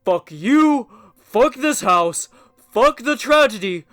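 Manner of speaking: loud cursing rant; angry outburst. Acted. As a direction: vent the fury at the house. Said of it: "In his anger".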